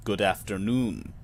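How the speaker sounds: lightly voiced clerk, low and slow; attempted quiet thunder. Clerk greeting a visitor, slightly put-on low, slow voice. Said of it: "he says with a voice like".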